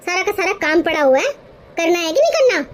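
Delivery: scolding mother-in-law. Acted. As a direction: bark at the lazy daughter-in-law. Mother-in-law scolds sleeping bahu. (ग़ुस्से में डाँटती सास)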